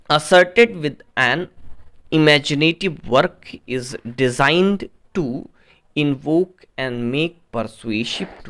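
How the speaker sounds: slow read-aloud, broken into short phrases; question read-out. Real, not acted. Teacher reading out question thirteen to students, slow, measured read-out. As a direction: dictate it slowly, pausing between phrases.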